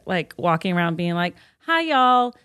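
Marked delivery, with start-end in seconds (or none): 1.7-2.4 Southern greeting. Retold or imitated. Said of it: "I lost my Southern accent on purpose".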